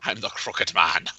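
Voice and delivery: low, slow, soft villain voice; menacing villain line. Pretend. Guest answers as the sinister Crooked Man. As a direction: growl out your name like a villain.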